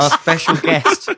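trying not to laugh. Real, not acted. Host giggling through intro.

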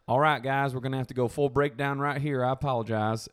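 put-on light Southern accent, courteous; Southern gentleman. Southern dad apologizing to fellow passengers, light Southern accent. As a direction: imitate a polite Southern man lightly. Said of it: "was just a Southern gentleman".

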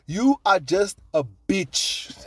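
slow, high, deliberate insult; mock verdict. Rugby bosses sizing up the coach, slow mock-scornful verdict. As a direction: spell out the put-down word by word. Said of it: "gonna look at Eddie Jones and be like".

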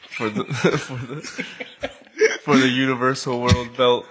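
words breaking into giggles; laughing while talking. Real, not acted. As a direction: fight the laugh through the line. Cracking up at own joke.

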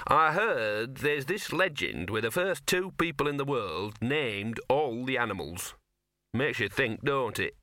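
slow, mildly cheerful storytelling dog; cheerful conversation-reviving. Acted. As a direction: muse chattily to fill the silence. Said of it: "in an attempt to revive the conversation".

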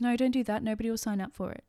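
a hint of a bossy doubting voice; mild mock scold from the inner critic; inner critic Susan. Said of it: "pipes up and goes".

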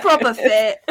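hammed-up Essex reality-show British accent, laughing through it; mock British accent. Mocking a Love Island contestant in a laughing fake British accent. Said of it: "I just know trashy British area".

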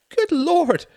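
very high, loud shriek; delighted horror. A narrator's reading. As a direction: cry out, half thrilled, half appalled. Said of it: "cried Wendy in a mixture of delight and horror".

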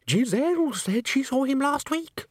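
put-on very high, agitated chorus-girl voice; high-pitched rumour from the crowd; gossiping company member. A narrator's reading. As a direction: pipe up with frightened gossip. Babble of frightened company voices.

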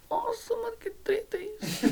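breathless whisper, half laughing; stunned whisper. Retold or imitated. Telling friends how the sight made him cry, a hushed laughing whisper. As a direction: gasp it out in disbelief, high and hushed.

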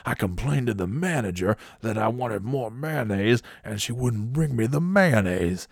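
slow, drawn-out mock indignation; imitating an upset customer. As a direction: act out an aggrieved rant, stretching the words. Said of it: "he's really upset. He's irate".

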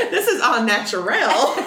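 playful mock French, giggling; French accent. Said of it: "Did you like my French?".

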